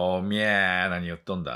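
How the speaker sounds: put-on Nagoya accent. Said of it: "名古屋の人が".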